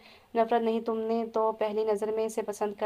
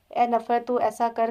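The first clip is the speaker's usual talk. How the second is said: calling out; 5 dB louder than usual. Acted. Calling out to hatred.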